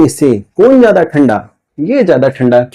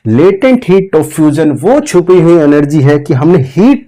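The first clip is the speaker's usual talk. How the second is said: careful repeat; slower than usual. Shown as a demonstration. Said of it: "ध्यान से सुनो फिर से".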